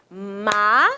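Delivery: "Ma-la" in two separate beats; syllable by syllable. Shown as a demonstration. Teacher shows pupils another counting method, syllable by syllable. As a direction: pause between the syllables of "Ma-la". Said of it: "fazer também da seguinte forma".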